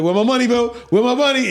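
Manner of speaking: demanding shout. Retold or imitated. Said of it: "He's like".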